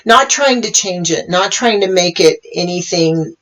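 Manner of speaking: calm meditation guiding, long pauses between phrases; guided meditation. Real, not acted. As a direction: guide listeners gently into the moment, leaving space. Leads a meditation.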